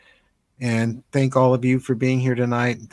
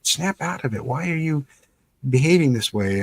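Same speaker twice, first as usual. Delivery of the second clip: higher mock nagging wife; a hint of an impatient wife, higher; imitating exasperated wife; 4 semitones higher than usual. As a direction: lightly voice the wife scolding him, pitched up. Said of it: "my wife always saying".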